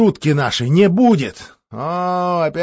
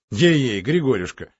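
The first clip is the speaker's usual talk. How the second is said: forced joking; 5 semitones higher, 4 dB louder than usual. Acted. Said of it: "постарался пошутить".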